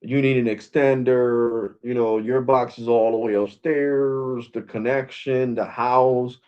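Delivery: slow, lightly mocking excuse voice; lightly voiced customer service rep brushing off a complaint; mock company excuse. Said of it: "Verizon does say".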